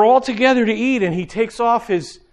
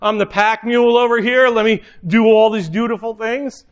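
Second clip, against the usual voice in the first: exasperated Martha; 3 semitones higher than usual. Retold or imitated. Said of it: "She's thinking".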